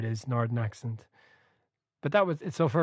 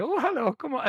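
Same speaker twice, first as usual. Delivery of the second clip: mock posh English hello, pitched much higher; 13 semitones higher than usual. Imitating the narrator's posh English Ramsey voice. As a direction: put on a plummy upper-class English greeting. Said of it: "fake, you know, posh, regal voice".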